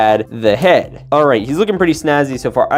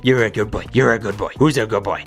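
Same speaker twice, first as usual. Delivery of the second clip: put-on talking to a baby; 4 semitones lower than usual. Cooing at toy dog.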